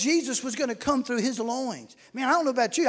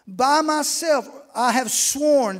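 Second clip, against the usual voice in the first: voice of the Lord; 2 semitones higher, 5 dB louder, much slower than usual. Acted. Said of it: "The Lord speaking".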